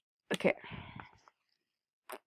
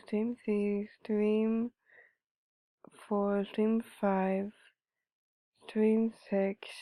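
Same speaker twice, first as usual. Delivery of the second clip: soft counting under breath; quiet; 5 dB quieter, slower than usual. Real, not acted. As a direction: murmur the count slowly. Counting streams softly.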